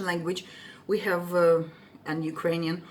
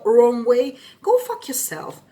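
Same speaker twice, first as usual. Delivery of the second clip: real fury still simmering hours later; real anger; 6 dB louder than usual. Real, not acted. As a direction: let the rage out at her. Venting anger at the lady.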